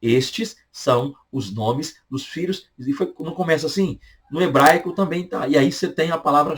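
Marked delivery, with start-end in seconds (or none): 0.0-2.7 Estes são os nomes dos filhos read slowly and deliberately; slow scripture quote. Shown as a demonstration. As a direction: spell the verse out slowly. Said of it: "olha como é que começa o Êxodo".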